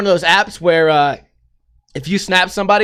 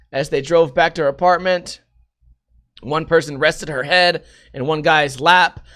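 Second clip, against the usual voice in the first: normal talking voice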